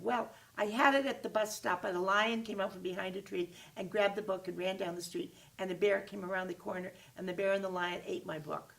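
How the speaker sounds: hammed-up fibbing kid; mock excuse. Kid tells a whopper.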